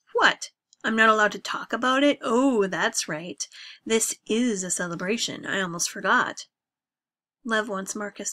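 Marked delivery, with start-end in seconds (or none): 0.1-6.5 loud, sarcastic outburst; getting louder. Acted. Drunk son defies his father at the party, loud and mocking. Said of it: "only makes Marcus get louder".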